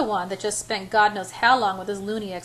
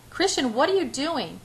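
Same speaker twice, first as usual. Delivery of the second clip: higher-pitched startled question; alarmed; 5 semitones higher than usual. A narrator's reading. Anna seeing Christian drop to his knees, alarmed. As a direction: ask in rising alarm, at normal pace. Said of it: "I repeat in a high-pitched voice".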